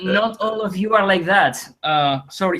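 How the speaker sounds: laughing apology. Retold or imitated. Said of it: "he was like".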